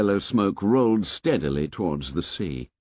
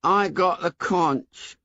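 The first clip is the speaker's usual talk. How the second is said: put-on lightly raised, slow, defeated boy; bleak Piggy; 8 semitones higher, slower than usual. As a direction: say it with little hope left. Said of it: "said Piggy bleakly".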